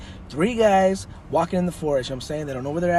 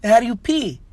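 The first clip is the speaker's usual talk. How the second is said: louder, higher puzzled question; mock bafflement; 8 semitones higher, 5 dB louder than usual. Biker questions the leprechaun, mock bafflement. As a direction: voice lifts in comic confusion.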